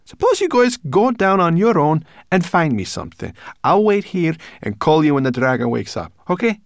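high, loud, indignant refusal; flustered brownie protest, forceful and very high; alarmed brownie. A narrator's reading. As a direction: dig your heels in, voice pitched right up. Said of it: "retreated from the precipice in alarm".

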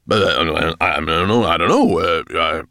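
loud, stammering panic; babbling. A narrator's reading. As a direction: stammer helplessly before a furious master. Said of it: "he babbled".

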